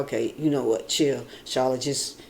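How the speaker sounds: soft, low self-soothing; calming herself. Retold or imitated. Woman telling herself to chill, soft and low. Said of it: "I'd be like".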